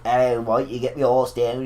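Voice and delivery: slow mock Irish accent; Sheamus. Co-host mimicking a wrestler on the microphone, mock Irish accent. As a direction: imitate a thick Irish brogue, drawn out. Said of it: "he gets on a microphone and he's like".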